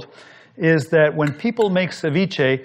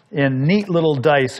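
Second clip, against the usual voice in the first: little leaned on a bit harder than the rest; stress on little. Shown as a demonstration. Cook explaining the dice size to viewers, little lightly stressed. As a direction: give the word little a light extra push. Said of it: "I emphasize the word little".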